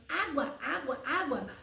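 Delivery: put-on name it clearly for a baby; parent naming water for baby. Mother teaching baby the word, gentle repetition. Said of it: "Ela faz alguns sons".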